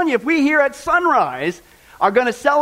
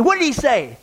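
mildly sarcastic question; 3 semitones higher than usual. Acted. Hairdresser asking what the Pope said, mildly sarcastic. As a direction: ask it with a touch of sarcasm. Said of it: "the hairdresser muttered sarcastically".

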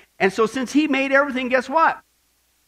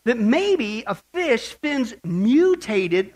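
mock quote; 3 semitones higher than usual. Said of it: "or they say".

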